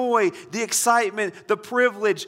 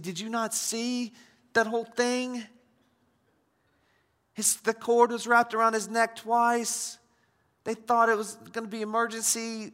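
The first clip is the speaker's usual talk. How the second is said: retold panicked disbelief; 5 semitones higher than usual. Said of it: "And I was like".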